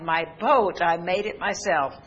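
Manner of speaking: put-on mild cry of a boy spotting his lost boat. Preacher voicing the boy finding his boat, mild exclaim. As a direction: call out like a boy who found what he lost. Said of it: "He entered the shop and cried".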